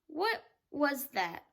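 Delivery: a touch of alarm, slow and hushed; quick alarmed question. Acted. James hearing a distant voice, mildly startled. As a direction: ask it startled, straining to listen. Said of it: "he asked quickly".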